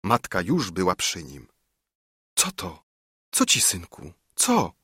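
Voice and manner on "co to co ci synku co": understated worried mother's questions; concerned. A narrator's reading. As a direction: ask with care, last word jumping up. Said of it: "pytała troskliwie".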